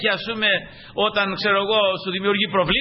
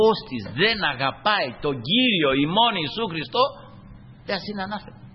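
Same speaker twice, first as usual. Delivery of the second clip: slow, grave scripture quote; slow it down, weigh every word; solemn quotation. Acted. Preacher quoting Paul's curse to the congregation, slow and grave.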